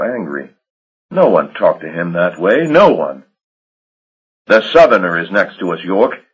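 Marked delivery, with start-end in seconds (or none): 4.5-6.2 curt, irritated retort; snapped. Acted. Marsh snapping back at York, irritated. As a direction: bite the words off. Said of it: "he snapped".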